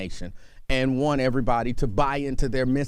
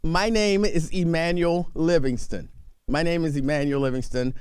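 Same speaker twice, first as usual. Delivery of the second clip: radio host intro. Acted. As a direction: announce yourself like a radio host.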